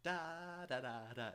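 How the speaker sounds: Da sung high and loud like a bad voicebank; high loud Da da da, imitating a voicebank; bad utau D's. Shown as a demonstration. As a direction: mimic a clumsy synth D. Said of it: "don't record D's".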